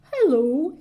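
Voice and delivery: hello. A narrator's reading. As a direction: call out a friendly hello. Bear greets watchman.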